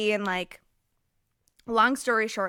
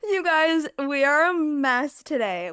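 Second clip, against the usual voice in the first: exasperated outburst; 6 semitones higher, 7 dB louder, slower than usual. Real, not acted. Laughing over knocking down curtains.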